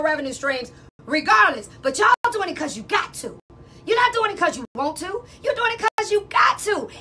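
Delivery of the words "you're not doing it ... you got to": emphatic shout. Real, not acted. Lecturing listeners about revenue streams.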